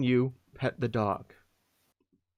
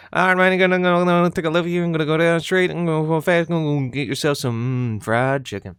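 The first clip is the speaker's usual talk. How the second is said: drive-through voice vet; 3 semitones higher, 6 dB louder than usual. Pretend. Voice vet playing sat-nav for a drive-through, loud and hammy. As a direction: bark directions like a goofy sat-nav. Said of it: "what would it be like".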